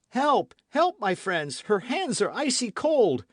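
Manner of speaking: very high, loud call for help; cry for help. A narrator's reading. D'Artagnan calling friends for help, panicked cry. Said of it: "cried D'Artagnan".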